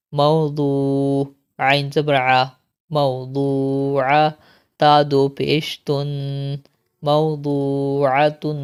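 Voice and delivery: slow, chanted letter-by-letter spelling; Qaida drill recitation. Shown as a demonstration. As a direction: spell each syllable out, then join and stop. (قاعدہ کی ہجے والی قراءت)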